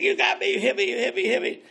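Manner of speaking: high, urgent cry of being hit; retold alarm. Hooked friend cries out to the caster, alarmed. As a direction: blurt it out, startled and hurt. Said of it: "He said".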